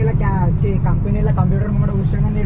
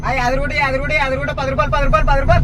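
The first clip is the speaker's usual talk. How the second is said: hawker call; 6 semitones higher than usual. Retold or imitated. Imitating a share-auto driver's call.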